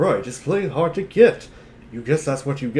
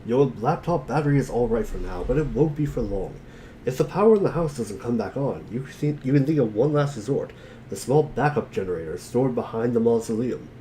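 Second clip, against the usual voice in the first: game narration; 2 semitones lower than usual. Acted.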